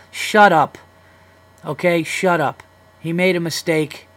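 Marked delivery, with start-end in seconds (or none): 0.1-0.8 louder, higher snap of shut up. Acted. Host shouting down imagined women critics, loud. 1.6-2.6 slower, firmer Okay, shut up. Acted. Host slowly dismissing imagined critics, deliberate.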